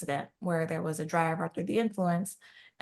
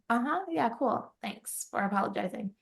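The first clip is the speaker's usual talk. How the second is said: mock-casual brush-off, starting high and dropping; lightly acted sarcastic acceptance of an apology; sarcastic retort; 5 semitones higher than usual. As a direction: toss off an unimpressed thanks. Hurt partner's sarcastic retort, retold.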